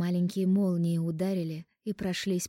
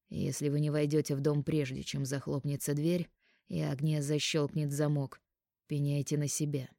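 commanding voice; 3 semitones lower than usual. Acted. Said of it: "от командного голоса".

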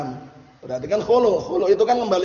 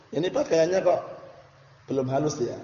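gentle hint; 5 dB quieter than usual. Retold or imitated. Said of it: "Dengan cara yang lembut".

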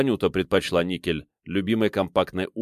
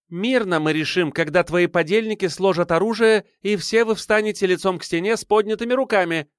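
higher, forceful called-out demand; shouted out; 11 semitones higher than usual. A narrator's reading. Armed girl shouting terms at the hero, higher and forceful. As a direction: lay down terms by yelling. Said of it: "выкрикнула ему Анюта".

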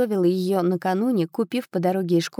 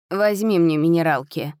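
жалобно; 3 dB louder than usual. Acted. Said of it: "жалобно попросила она".

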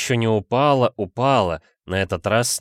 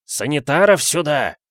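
louder, higher bellow for orderlies; full-throated shout; 6 semitones higher, 4 dB louder than usual. A narrator's reading. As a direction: yell with all your lungs. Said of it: "крикнул во всю мощь своей лужёной глотки". (крик во всю глотку)

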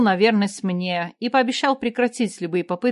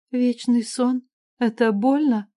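plain reading voice

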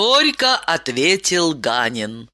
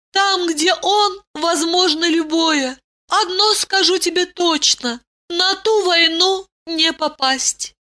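higher, tender princess voice; consoling princess; 12 semitones higher than usual. A narrator's reading. Ailin comforts her husband. (утешающая жена, высокий голос)

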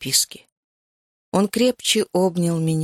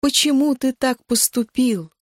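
angry cry; 5 semitones higher than usual. Acted. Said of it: "кулаки яростно колотили".

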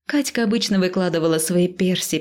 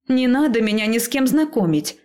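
protesting; 5 semitones higher than usual. Acted. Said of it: "запротестовала я".

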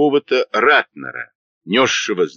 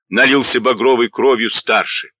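ordinary delivery

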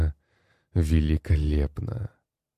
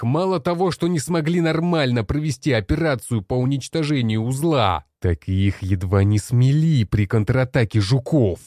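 much higher, strained raging shout; furious tirade; 6 semitones higher than usual. Acted. Commander rages at the generals over the failed operation. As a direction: keep screaming the accusations without pause.

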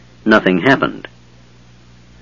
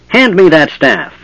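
goblin demand; 5 semitones higher than usual. Acted.

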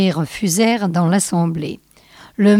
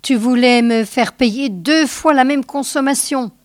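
higher-pitched, indignant retort; indignant protest; 5 semitones higher than usual. Acted. Scoblar defends himself to the judge, indignant. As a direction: object as if cheated. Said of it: "s'insurgea Scoblar".

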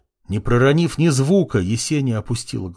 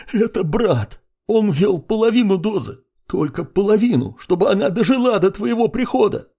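panicked confession; 10 semitones higher than usual. A narrator's reading. Prince screaming confession.

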